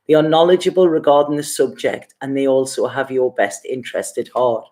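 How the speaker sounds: steady, measured reading of the card's message; card reading aloud. Acted. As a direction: read the card text gently and evenly, like a passage. Reads the card text aloud.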